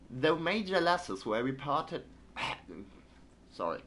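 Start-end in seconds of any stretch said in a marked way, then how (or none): 0.1-2.0 put-on a shaky British newsreader accent; British accent attempt. Streamer resumes the British newspaper in a British accent. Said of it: "I can't do British accent".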